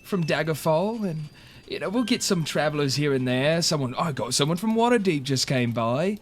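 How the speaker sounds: innkeeper York, a bit defensive. Acted.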